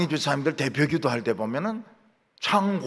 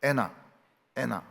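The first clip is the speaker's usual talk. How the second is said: American 안나; 3 semitones lower, 3 dB quieter than usual. Shown as a demonstration. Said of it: "안나 이게 안 돼요".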